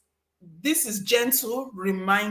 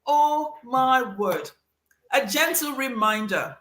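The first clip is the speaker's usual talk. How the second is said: slow drawn-out oh my word, mock shock; exasperated disbelief; 4 semitones higher than usual. Reacting to a pushy email, slow mock exasperation. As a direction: stretch it out, half amused and half appalled. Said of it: "And I'm like".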